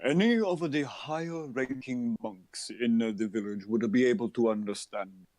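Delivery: lightly voiced villager NPC; calm village NPC. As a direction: speak as a calm, peaceful local.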